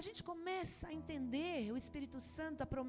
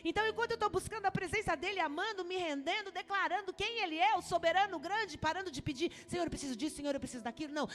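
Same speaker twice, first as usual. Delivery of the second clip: higher, louder, fast-driving preaching; preaching at full force; 6 semitones higher, 5 dB louder, faster than usual. Acted. Pastor preaching to the church, fast and loud. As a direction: preach it out, rising and pressing on.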